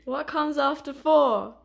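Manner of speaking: slow, loud, every word spelled out; slow emphatic question. Shown as a demonstration. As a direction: lean on each word so he catches it. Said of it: "Pay attention".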